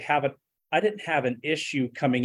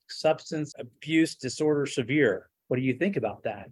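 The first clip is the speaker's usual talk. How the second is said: sheepish. Retold or imitated. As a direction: admit it like you'd rather not. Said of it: "and I'm just very sheepish".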